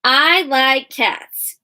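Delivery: "I like cats" drawn out word by word; slow modeled reading. Shown as a demonstration. Teacher rereading the sentence slowly for the class. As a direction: read it slowly, pointing at each word. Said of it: "teacher rereads the sentence slowly".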